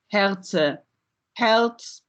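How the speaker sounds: Herze with final e, Herz without; apocope demo. Shown as a demonstration. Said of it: "via apocope and syncope".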